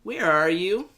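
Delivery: loud mock call into the night. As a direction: shout the question out. Calling for drunk woman.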